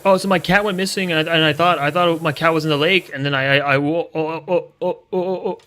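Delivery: mock him as a flustered fool; mocking whiny mayor. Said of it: "mocking mayor's story".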